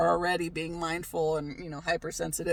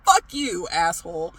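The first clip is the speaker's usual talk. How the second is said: mock curse; 7 dB louder than usual. Angry at gloating mom.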